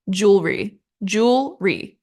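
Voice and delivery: jewelry as JOOL-ree, no middle vowel; two-syllable jewelry. Shown as a demonstration. Teacher repeating the easier British version, two-syllable jewelry. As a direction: say jewelry in two firm beats. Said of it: "literally just two syllables".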